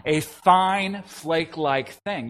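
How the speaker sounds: slow, each word of "A fine flake-like thing" dwelt on; savoring the phrase. Shown as a demonstration. Preacher pointing out a funny phrase to the congregation, slowly relishing it. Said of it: "You heard that, didn't you?".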